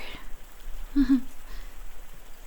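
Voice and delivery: soft, breathy falling chuckle; quiet chuckle. Acted. Asking what the patient remembers, quiet chuckle. Amused at the listener.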